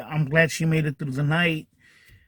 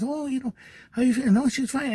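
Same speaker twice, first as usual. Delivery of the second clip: light breezy nurse voice, higher; imitating the nurse; 8 semitones higher than usual. Nurse brushing off the worried son, higher and breezy. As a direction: play the unbothered nurse, pitched up.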